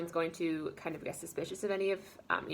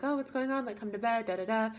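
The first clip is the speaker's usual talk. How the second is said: waking wife; 5 semitones higher than usual. Retold or imitated. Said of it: "she kind of wakes up".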